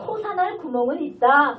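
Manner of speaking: firm call-and-response preaching; rallying proclamation. Real, not acted. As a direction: declare it for the congregation to echo. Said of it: "다 같이 선포합니다".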